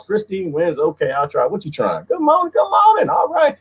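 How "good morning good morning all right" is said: yelling good morning to everyone; shouted greeting. Real, not acted. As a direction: belt the greeting out.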